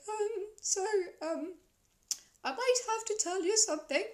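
high, giggly guilty confession; sheepish. Retold or imitated. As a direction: admit it with a nervous laugh.

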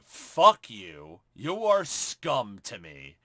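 slow, cold contempt. Retold or imitated. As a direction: drag out the insult, disgusted. Mother's contemptuous slap meaning.

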